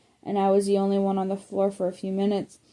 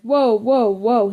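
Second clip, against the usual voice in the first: loud startled whoa; 2 semitones higher, 7 dB louder, slower than usual. Acted. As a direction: jump back startled. Friend startled by yell.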